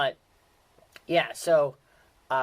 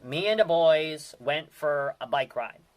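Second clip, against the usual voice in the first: Pittsburgh accent example; 5 dB louder, slower than usual. Shown as a demonstration. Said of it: "so here goes".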